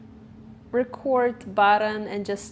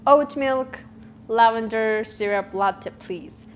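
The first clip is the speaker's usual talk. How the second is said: blunt order; 4 dB louder than usual. Retold or imitated. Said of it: "Or you can say".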